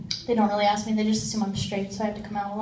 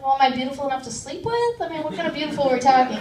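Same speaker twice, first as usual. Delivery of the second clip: quick cheeky pitch; faster than usual. Retold or imitated. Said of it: "I'm like".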